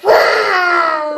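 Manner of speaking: put-on child shouting a lion roar. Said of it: "What a good roar that is".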